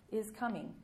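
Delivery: "is" hit first, coming falling away; stress on is. Shown as a demonstration. Preacher pointing out the grammar of the verse, stressed. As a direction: lean on the word is. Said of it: "Future progressive".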